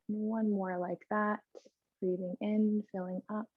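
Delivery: soft, unhurried yoga-teacher voice with long pauses; guided breathing. Real, not acted. Yoga teacher leading the class in breaths together, soft guided breathing. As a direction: gently guide them through each breath, leaving space.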